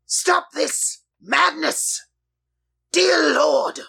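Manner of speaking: high, drawn-out cry to the heavens; anguished shout of stop this madness; yelled plea. Acted. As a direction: yell it out, pleading high and long. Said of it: "I yell out".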